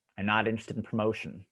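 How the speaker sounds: ordinary talk, nothing marked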